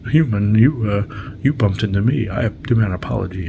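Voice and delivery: demanding, with a hard hit on the opening; mock indignant demand. Alien bumped by Wesley demands an apology, mock indignant. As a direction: imitate an indignant alien, loud at first.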